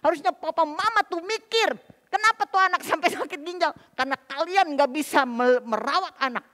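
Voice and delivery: loud, high-pitched re-enacted scolding; angry accusing tirade; furious confrontation. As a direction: lay the blame on the parents at full volume. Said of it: "saya udah marah luar biasa".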